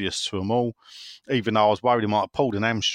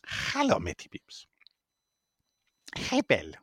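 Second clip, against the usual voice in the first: whispered hello; 5 dB quieter than usual. Acted. Greeting listener in silly voice.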